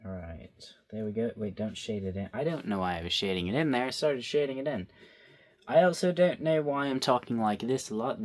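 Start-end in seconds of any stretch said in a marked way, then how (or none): 5.7-8.2 bright, lively video voice; recording voice. Real, not acted. Vlogger remarking on her own on-camera voice, bright and lively. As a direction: put on the upbeat recording persona. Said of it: "That's not my normal voice".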